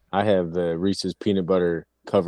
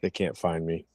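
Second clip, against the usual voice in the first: playful hushed whisper; teasing whisper, hiding from friends; mock whisper; 2 semitones lower, 5 dB quieter than usual.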